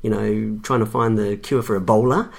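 half-laughing denial; laughing protest. Retold or imitated. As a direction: customer laughing off a medical-equipment mix-up.

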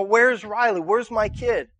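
mock rising alarm, pushing through a crowd; starting to panic. Parent searching a crowded store for a daughter, mildly panicked. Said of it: "you start kinda freaking out".

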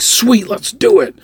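high and slow, savoring the sweet; mock thrilled yes; drawn-out excited sweet. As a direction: stretch out sweet with glee. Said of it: "And I was like".

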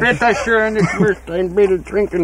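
put-on German accent. Mock German bar order.

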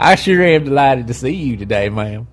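mild mock Southern accent. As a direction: play up a Southern gentleman charm. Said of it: "really lay on the southern accent".

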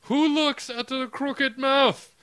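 high, loud, slow posh British scoff; hammed-up posh cigarette-type British accent. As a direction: drawl it like a posh cigarette-smoking Brit. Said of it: "posh cigarette type British".

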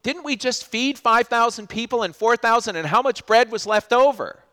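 almost disbelieving the class; exasperated Jesus. Retold or imitated. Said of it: "He goes".

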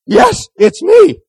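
high, slow, sugary reply; mock Hallmark tender. Preacher spoofing a Hallmark deathbed: slow sugary reply. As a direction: lay on the TV-movie sweetness.

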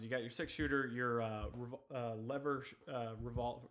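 distant, off-mic voice; talking away from the microphone; far from mic. Real, not acted. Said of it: "You're so far away from the mic".

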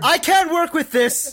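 very high, loud diva outburst; slow, hammed-up furious shout; mock tantrum. Co-host gives up on the botched takes, mock tantrum shout.

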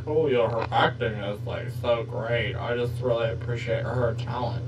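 mock sincere gush. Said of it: "I don't mean like".

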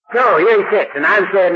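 usual speaking voice

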